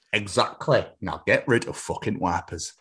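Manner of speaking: settled, lightly voiced Yorkshire order; Yorkshire boss. Boss dismissing Jeff, mild firm Yorkshire accent. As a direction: close the matter in Yorkshire. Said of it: "has been built in Yorkshire".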